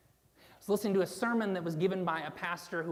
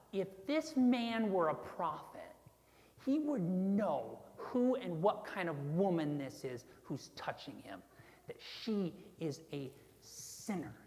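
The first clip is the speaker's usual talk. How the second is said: disgusted; 3 dB quieter than usual. Acted. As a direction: sneer it with measured contempt, dropping away on the last words. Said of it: "Can you hear the disgust in his voice?".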